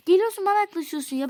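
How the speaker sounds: put-on quick annoyed rant at the boyfriend; angry complaint. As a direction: snap at him for coming close.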